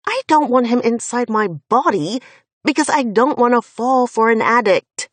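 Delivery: addict pushed out hard and loud; stress on addict. Acted. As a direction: lean on the word addict. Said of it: "I emphasize the word addict".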